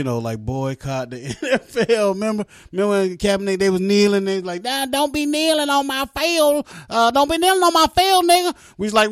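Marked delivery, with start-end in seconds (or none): 4.6-8.6 high, loud mocking scold; mock team owner. Owner scolding kneeling players off his field, high loud mock. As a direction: bark it down like a bossy owner.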